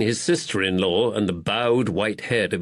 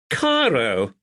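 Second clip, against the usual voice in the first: alarmed exclaim; 3 semitones higher than usual. Acted. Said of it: "Duddles exclaimed in alarm".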